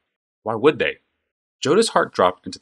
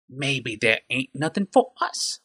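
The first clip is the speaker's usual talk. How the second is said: goblin voice; 5 semitones higher, slower than usual. A narrator's reading. Goblin threatens.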